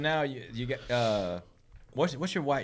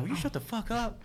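Rocco; 12 semitones higher than usual. Retold or imitated. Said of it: "And Rocco's like".

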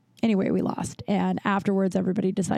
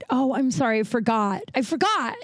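exaggerated contrition, somewhat higher pitched; sarcastic mock apology; 4 semitones higher than usual. Woman answering the man who bought her drink, sarcastic mock apology. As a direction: feign a sudden realization, laying on the sarcasm.

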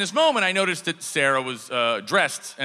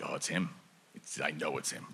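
low hushed inner voice; 11 semitones lower, 13 dB quieter than usual. Retold or imitated. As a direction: murmur it to yourself in awe.

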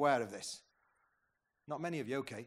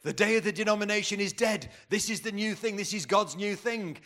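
proclaiming leaders; 4 semitones higher, 3 dB louder than usual. Retold or imitated. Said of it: "And they said".

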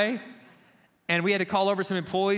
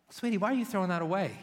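sweet wife; faster than usual. Retold or imitated. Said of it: "she was like".

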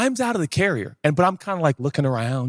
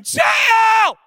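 loud, high shout calling the dog; calling out for a lost dog; screaming a name; 6 dB louder than usual. Retold or imitated. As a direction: scream the dog's name into the dark. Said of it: "I'm screaming".

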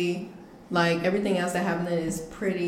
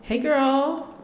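white voice; 6 semitones higher than usual. Shown as a demonstration. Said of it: "I do that one a lot".

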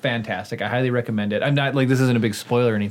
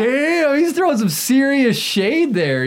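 amazed; 12 semitones higher, 4 dB louder, slower than usual. Retold or imitated. Retelling amazed reaction.

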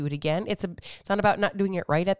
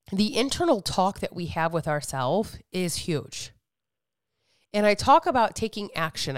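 normal talking voice

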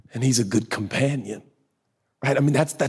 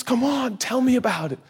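gentle invitation; 10 semitones higher than usual. Retold or imitated. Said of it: "He just goes".

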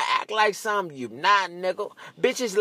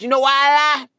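rising shout; 6 semitones higher, 6 dB louder than usual. Real, not acted. Building rhetorical challenge to audience.

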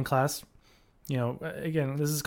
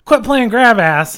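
loud, slow, higher-pitched telling-off; mock shouted order; mock scolding; 7 semitones higher, 10 dB louder, slower than usual. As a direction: imitate someone barking a reprimand. Imitated scolding adult in retold example.

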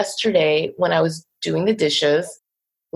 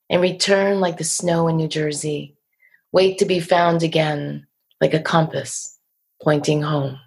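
poem recital. Shown as a demonstration. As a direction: read the poem aloud, unhurried. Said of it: "let me see if I can do that".

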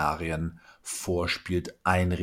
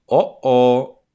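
a loud, higher mock alarm; worrying inner voice; 5 semitones higher, 11 dB louder than usual. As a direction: sound like the anxious voice in your head. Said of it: "Die Stimme kommt". (lautes, höheres besorgtes „Oh, oh“)

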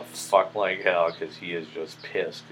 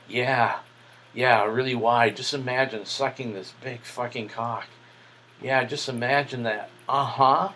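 higher, louder teasing encouragement; eager egging on; 5 semitones higher, 4 dB louder than usual. Retold or imitated. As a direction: hype him up, loud and high. Egging him on.

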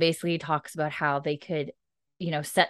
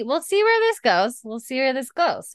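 ominous singsong; 8 semitones higher, 3 dB louder than usual. Real, not acted. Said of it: "ominous teasing repeat".

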